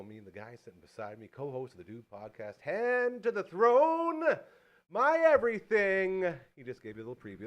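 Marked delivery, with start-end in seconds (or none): 2.6-6.2 loud, high, drawn-out ring-announcer call; hype announcer. Pretend. Host introduces the co-host, hype announcer shout. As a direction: belt it out slowly, sky-high.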